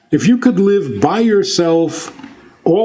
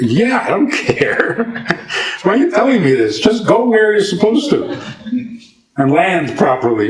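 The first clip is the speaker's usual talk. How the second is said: higher-pitched, comic exasperation at being told; mock impatient passenger; 4 semitones higher than usual. Comedian's passenger answering the pilot's announcement, mock impatient. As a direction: brush off the announcement, voice rising as you go. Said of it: "like the comedian who says".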